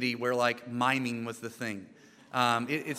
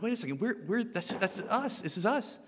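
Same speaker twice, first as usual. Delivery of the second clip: indignant; 6 semitones higher than usual. Retold or imitated. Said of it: "I'm like".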